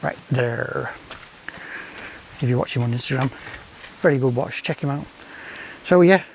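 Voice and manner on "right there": lightly Scouse "right there"; a hint of Liverpool twang; Scouse accent. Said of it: "as a Scouse Ghetto Gourmet would say".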